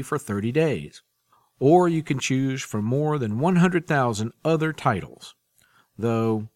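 smooth announcer read of the audiobook intro; podcast promo read. Acted. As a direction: read it like a radio host introducing a serial. Podcast host reads promo and intro.

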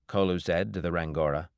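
ordinary delivery

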